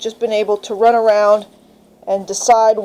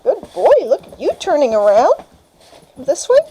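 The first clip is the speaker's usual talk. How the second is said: puppy praise; 4 semitones higher than usual. Real, not acted.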